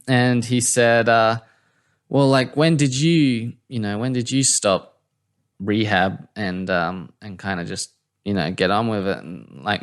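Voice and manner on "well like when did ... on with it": imitated hesitant question; halting, a touch nervous; tentative. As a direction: feel your way into an awkward question. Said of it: "Matt was a bit scared to ask".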